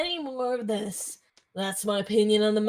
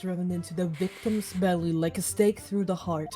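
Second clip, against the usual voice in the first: grave judge; 4 semitones lower, 4 dB quieter than usual. Acted.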